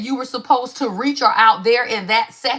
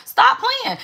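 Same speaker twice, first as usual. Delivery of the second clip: exclaiming in disbelief; 11 semitones higher than usual. Real, not acted. Calling out the audience.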